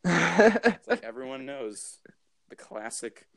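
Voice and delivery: slow mock conservative pundit, starting high; cartoon-villain YouTuber. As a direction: draw it out like a caricatured commentator. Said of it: "they're all, like, cartoon villains".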